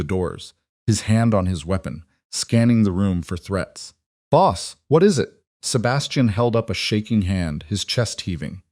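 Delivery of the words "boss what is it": higher-pitched, urgent check on the boss; alarmed question. A narrator's reading. Henchman bursting in to check on his boss, alarmed. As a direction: jump in with an alarmed query.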